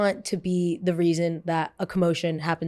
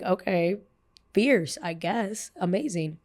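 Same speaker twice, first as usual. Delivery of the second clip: sarcastic; slower than usual. Retold or imitated. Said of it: "I'm like".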